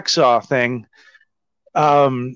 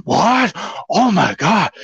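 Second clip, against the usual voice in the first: feigned shock; 5 semitones higher, slower than usual. Retold or imitated. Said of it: "He's acting funny".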